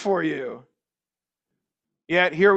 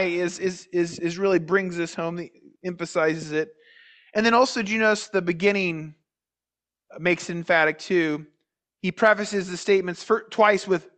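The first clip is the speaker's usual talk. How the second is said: ordinary talk, nothing marked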